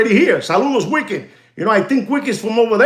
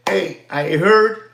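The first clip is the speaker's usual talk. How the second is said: casual opener; much slower than usual. Shown as a demonstration. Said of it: "You, you tell them just like this".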